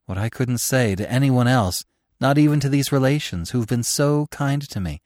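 a working mother's anxious, earnest confession; earnest mother pleading. Acted. Mother confides in the author, pleading and earnest. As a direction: pour out her worry about the children.

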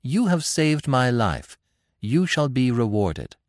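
slow, high, queenly pronouncement; measured regal voice, pitched high; imperious. A narrator's reading. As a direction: grant a reward like a sovereign. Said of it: "a touch of her old imperiousness".

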